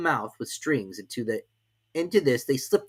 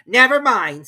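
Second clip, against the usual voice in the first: relieved king; 12 semitones higher, 13 dB louder, slower than usual. A narrator's reading. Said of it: "with an air of great relief".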